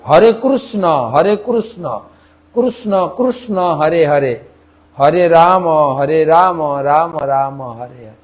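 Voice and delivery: Odia chant with "kurusno" for কৃষ্ণ; Odia accent. Retold or imitated. Teacher repeats the Odisha version, Odia accent. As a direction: chant it Odia-style, u in Krishna. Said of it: "তারা আবার কৃষ্ণ বলে না".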